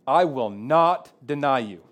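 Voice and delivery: lightly voiced Peter, slow and sure; a hint of proud Peter insisting; Peter's boast.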